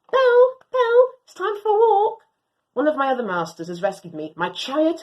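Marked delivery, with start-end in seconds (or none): 0.1-2.2 high, loud call to the dog. Acted. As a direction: call the dog from across the house. Master calls the dog.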